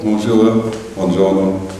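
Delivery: ordinary delivery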